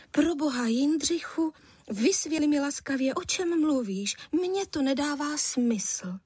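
mild exasperated wife voice; lightly voiced wife. A narrator's reading. Wife's voice in story. (lehce naznačená manželka, vyšší hlas)

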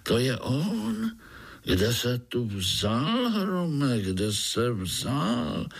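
high, slow panicky disbelief; mild hammed-up fright; frightened. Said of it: "lekl se strýček".

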